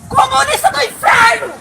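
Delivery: grito furioso, agudo; xingando com raiva. Real, not acted. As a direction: xingue os guardas, revoltada. Mulher xingando os guardas. (grito de raiva)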